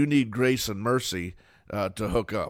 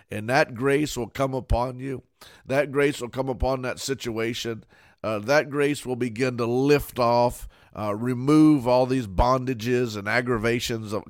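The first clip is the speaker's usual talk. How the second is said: louder, driving preacher's build; building sermon; 3 dB louder than usual. Acted. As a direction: pastor pushing toward the climax. Preaching builds to full force.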